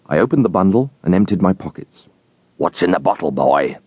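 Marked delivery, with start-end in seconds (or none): 2.6-3.8 low, rough convict questioning; a hint of the hungry fugitive; convict's voice. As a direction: drop down into the convict.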